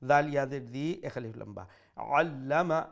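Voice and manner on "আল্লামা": "আল্লামা" starting from mid-throat, with doubled l; deliberate throaty ain in "আল্লামা"; middle-throat ain. Shown as a demonstration. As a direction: squeeze the first sound of "আল্লামা" in the throat. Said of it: "pronounce the ain from the middle of the throat".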